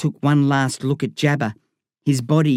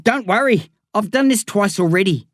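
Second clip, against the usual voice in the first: casual reassurance; 8 semitones higher than usual. A narrator's reading. Darren calmly assuring.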